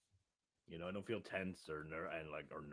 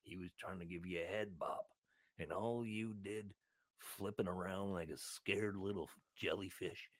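put-on lightly lowered, accented seal voice; aggressive seal; 3 semitones lower than usual. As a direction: rant at humans as an aggrieved seal. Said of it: "I don't know why I've got this accent now".

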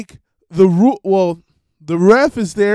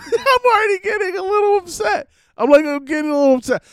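worked up and speeding, voice jumps higher; voice rising upset; 13 semitones higher, faster than usual. Real, not acted. Podcaster starting his wrestling rant, rising and rushed. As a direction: pitch climbs higher, rushing fast as the rant starts. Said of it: "the inflection of my voice change".

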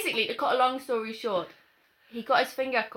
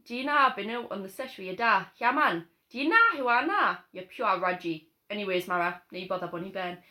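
put-on Geordie accent; 3 semitones lower than usual. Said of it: "I think mine's is better, my accent".

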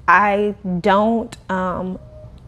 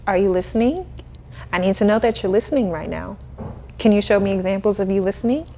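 teacher voice; faster than usual. Shown as a demonstration. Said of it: "I start speaking like that".

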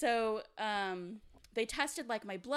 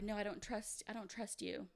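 fearful refusal; 9 dB quieter than usual. Retold or imitated. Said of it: "And so I was like".

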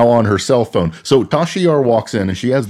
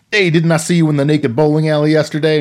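high, leering pickup line; a sleazy guy hitting on her; creepy worker voice; 6 semitones higher than usual. Retold or imitated. Pervy construction guy hitting on Tasha Yar, sleazy.

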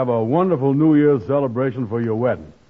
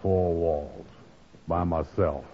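glum and alone; 5 semitones lower, 6 dB quieter than usual. Acted. Andy sulking alone at home on New Year's Eve, softly glum. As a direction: sigh it out like a man who gave his night away.

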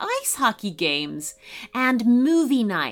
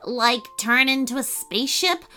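cheerful elf; 3 semitones higher than usual. Acted. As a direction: chirp it up like a happy little elf. Bryant the elf speaking.

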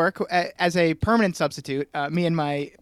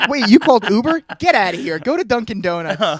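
mock angry driver; 3 semitones higher, 6 dB louder than usual. Lyft driver kicking woman out.

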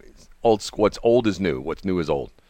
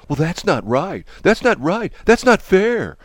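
mock whine; 9 semitones higher, 3 dB louder than usual. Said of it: "people are gonna go".

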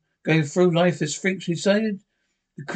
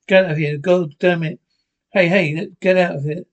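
loud furious order; angry shouting; 3 dB louder than usual. Acted. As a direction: shout them out of the room. Chasing someone off.

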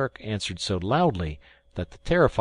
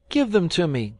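put-on higher, louder, eager boy's plea; a boy eagerly calling out for the bowls; eager cry; 9 semitones higher, 4 dB louder than usual. A narrator's reading. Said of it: "cried Ernest".

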